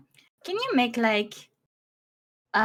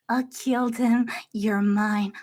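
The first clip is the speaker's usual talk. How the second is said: dangerous; 8 semitones lower, slower than usual. Pretend. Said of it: "You wanna sound dangerous".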